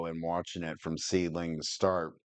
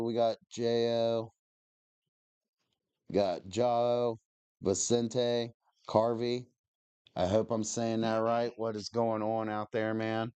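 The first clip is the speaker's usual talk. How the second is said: stoned. Real, not acted. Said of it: "I'm stoned right now".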